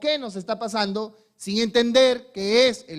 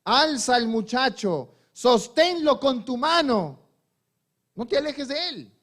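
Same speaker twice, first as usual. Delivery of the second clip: slow, emphatic orders climbing higher; acted angel's command; 4 semitones higher than usual. Preacher as the angel urging Agar to lift her son, emphatic command. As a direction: lightly play an angel urging a mother on. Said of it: "le dijo el ángel de Jehová a Agar".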